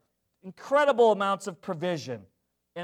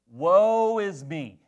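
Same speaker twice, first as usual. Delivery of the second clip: mock self-pity; 4 dB louder, much slower than usual. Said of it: "I had a lot of feelings about".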